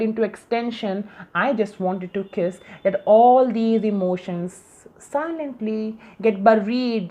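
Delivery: measured spoken-word delivery with pauses between phrases; earnest poetry reading, phrase by phrase; poem recitation. Acted. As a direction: recite your own poem, line by line. Recites own emotional poem after introducing it.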